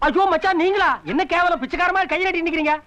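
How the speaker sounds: high-pitched exclaiming dismay; mock shock. Man finds brother-in-law with hand out like a beggar, mock shock.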